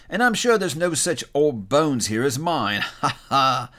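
hammed-up chuckle at his own joke; slow quip capped by an acted laugh; joking old Joe. Old Joe jokes about his old bones, laughing.

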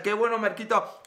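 "Marquito" said with a little whistle on the consonants; whistled S in Marquito. Shown as a demonstration. Greeting a viewer named Marquito with a little whistle. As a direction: let "Marquito" whistle through the teeth. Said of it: "no se puede decir Marquito sin el chiflidito".

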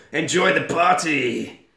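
slow, drawn-out creepy host; creepy Claude's voice. Retold or imitated. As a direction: welcome them in a put-on shady doorman voice. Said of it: "He can have a Raoul voice".

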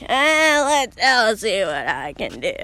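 slow, drawn-out put-on man's voice; best character impression. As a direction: stretch it out like a hesitant old friend. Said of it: "That's my best impression of him".

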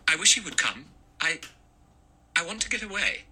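put-on high, anxious young woman's voice. A narrator's reading. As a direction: Vera pleading to get off the island. Vera voiced, panicked.

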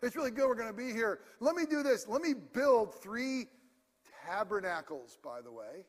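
high, loud, rushed nervous chatter; a hint of terrified Peter; nervous babbling. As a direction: stammer it out, scared and eager. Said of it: "He's out of terror".

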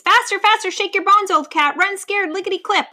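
high-pitched, insistent cheering on; frantic urging. A narrator's reading. Vulture hurrying the old lion along, frantic urging. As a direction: spur him on excitedly. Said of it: "urging the lion to pick up the pace".

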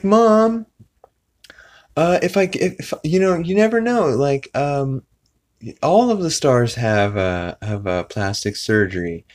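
high whiny begging voice; imitating Meg begging. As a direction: beg Mom in a high voice.

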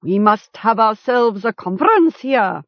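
high-pitched, sarcastic respect; mock deference. A narrator's reading. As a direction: address the captive with false esteem. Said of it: "speaking now in mock deference".

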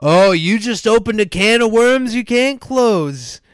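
high, loud gloating villain; menacing villain voice. Retold or imitated. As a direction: taunt like a smug heel. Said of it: "he's playing the, like".

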